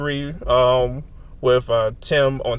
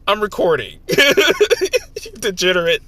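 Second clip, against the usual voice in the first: cute anime streamer; 8 semitones higher, 7 dB louder than usual. Real, not acted. Teasing friend while laughing.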